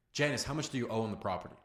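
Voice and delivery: straight, unbroken question, a bit low; blunt question. Shown as a demonstration. Caller asking Janice about the debt, blunt. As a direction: ask it bluntly without easing in. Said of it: "Completely different tonality".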